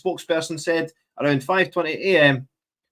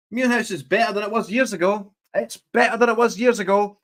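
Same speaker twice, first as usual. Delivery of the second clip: mocking quote; 5 semitones higher than usual. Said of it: "What a joke".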